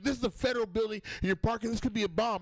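high, overwrought cop imitation; mock alarmed officer. Comedian mimics cop fussing over parked car, high mock alarm. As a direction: pitch it right up, overdoing the official alarm.

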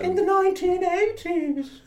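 slow, very high wailing ghost; hammed-up spooky falsetto, words drawn out. Ghost telling of being a passenger, slow high wail. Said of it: "Oh, I'm being the ghost".

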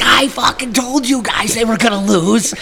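put-on high taunting teen voice; high mock gloat; gloating kid. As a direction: rub it in like a smug teenager.

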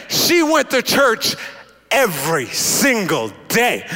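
slow, spaced stress on "every single day"; pause, then land each word of "every single day"; emphatic insistence. Retold or imitated. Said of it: "No, you don't understand".

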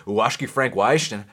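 a touch of Brazilian accent on the name. Shown as a demonstration. Host showing how to say the fighter's name, light Brazilian accent. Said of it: "say it with that Brazilian accent".

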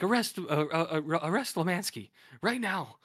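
hammed-up order to arrest; mock shouted order. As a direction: play the boss finally snapping. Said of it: "so he cracks".

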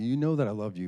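mildly puzzled insistence; perplexed. Retold or imitated. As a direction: sound a touch baffled, imitating a girl. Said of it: "very perplexed. She's like".

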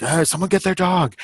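groan, then call out in a mildly acted fuss; exasperated owner. Dog walker calling for help with a loose dog, mock exasperated.

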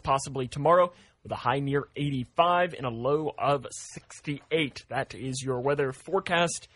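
steady forecast read; weather read. Acted. Morning host reading the forecast to listeners, news-read style.

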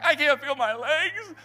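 high, slow pained moan; mock exhaustion. Worn out runner in the marathon, slow pained moan. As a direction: groan it out as if spent.

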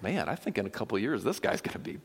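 uneasy realization, lightly acted, pitch rising; mock-worried boss. A boss foreseeing an employee passing him, mildly worried. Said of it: "even the boss starts to think".

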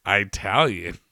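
"Italian" said as eye-TAL-yun; stressed first I. Retold or imitated. Puzzled newcomer repeating it, "Italian" with a long EYE start. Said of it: "with the inflection on the I".

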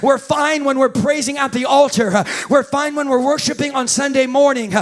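preaching. Acted. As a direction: preach with building fervor. Preaching builds again.

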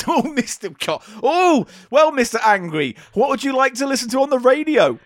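DJ hamming it up for the caller; Steve Wright DJ accent. Pretend. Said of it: "and I'll be Steve Wright".

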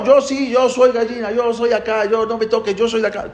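put-on high, childish chick voice insisting; a little bird digging in its heels, high-pitched; stubborn chick. Chick refuses the eagle's claim, high and childish.

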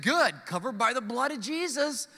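imitating an over-churchy believer; a hint of overdone holy cheer; mock pious greeting. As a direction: answer like a showily devout Christian. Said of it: "Why would you talk like that".

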